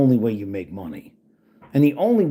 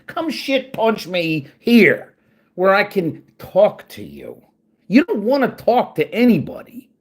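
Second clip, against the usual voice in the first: angry challenge; 6 semitones higher, 3 dB louder than usual. Real, not acted. Challenging troll Dylan to come talk, higher and louder. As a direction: dare him to face you.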